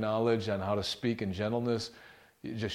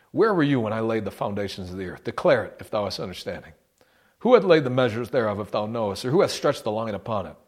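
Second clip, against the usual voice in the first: booming voice of God; 5 dB louder than usual. Acted. Preacher booming God's questions to Job.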